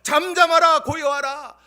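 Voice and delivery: loud, ringing command to the storm; commanding rebuke. Acted. Pastor voicing Jesus rebuking the wind, commanding shout. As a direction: order the wind to be still. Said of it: "주님께서 짠 하고 나타나셔서".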